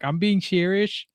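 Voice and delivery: slow, lightly mimicked Scouse accent; Liverpudlian accent. Podcaster quoting the Liverpool fan who got laughed at, Scouse accent. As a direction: stretch it out in imitation Scouse. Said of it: "he's doing the Liverpudlian accent".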